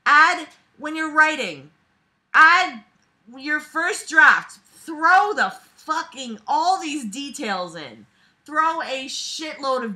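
loud, high exasperated lecture; ranting advice. Real, not acted. Scolding the author about drafts, loud exasperated rant. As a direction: shout writing advice at the author.

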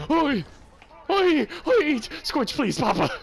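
shouting to get a teammate's attention; yelling oi. Real, not acted. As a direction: bellow for help across the map.

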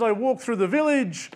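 put-on a touch of Mexican accent, easygoing. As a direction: lightly voice a relaxed Mexican fisherman. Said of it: "I apologise for the accent".

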